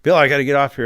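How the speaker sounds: under duress. Retold or imitated. Sheriff to Bill on a call, retold under duress. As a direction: imitate a pressured man cutting the call short. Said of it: "He was under duress".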